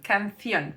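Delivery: canción pronounced with Spanish th-sound, stressed -ción; canción, stress on the final syllable; careful Spanish canción. Shown as a demonstration. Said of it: "words exactly like the one that I just mentioned".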